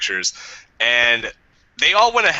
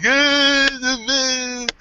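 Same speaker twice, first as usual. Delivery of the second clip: mock busker; 11 semitones higher, much slower than usual. Imitating a busker singing.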